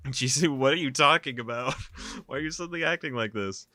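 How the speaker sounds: high, loud, distressed protest; alarmed outcry. A narrator's reading. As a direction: cry out in alarm and confusion. Protagonist alarmed by Jisoo's sudden aggression.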